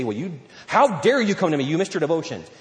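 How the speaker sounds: a touch of stern reproach; mock scolding. God wrongly imagined rebuking missed devotions, mock scolding. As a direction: mildly imitate an indignant telling-off. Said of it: "He's not gonna scold you".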